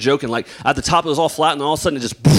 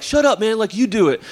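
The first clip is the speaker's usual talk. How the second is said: put-on annoyed kid; 5 semitones higher than usual. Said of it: "You're like".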